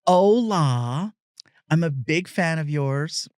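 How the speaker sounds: lightly mocking eager fan voice; a hint of an overeager fan greeting; imitating a fan. Comedian mimicking a fan who greets him in Spanish, lightly mocking. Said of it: "Or I'll get people".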